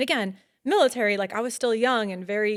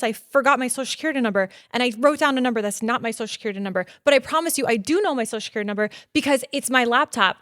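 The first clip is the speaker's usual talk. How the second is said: nervous rushed confession; 4 semitones higher, 4 dB louder than usual. Retold or imitated. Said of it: "I'm like".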